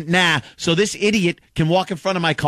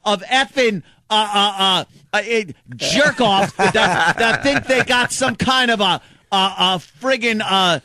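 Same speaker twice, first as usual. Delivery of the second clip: angry rant; 5 semitones higher than usual. Real, not acted. Ranting angrily on air.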